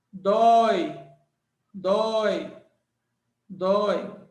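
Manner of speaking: DÓI with a wide open O gliding into I; som aberto do Nordeste. Shown as a demonstration. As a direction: say "dói" slowly, open O, each one on its own. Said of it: "o som natural do Nordeste". ("dói" com o O bem aberto, à moda do Nordeste)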